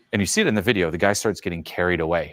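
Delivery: normal talking voice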